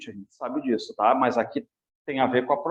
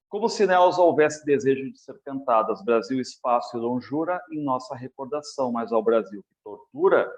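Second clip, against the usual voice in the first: poem reading; 3 semitones lower than usual. Acted. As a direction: read the verse with care, line by line. Teacher reads a poem aloud.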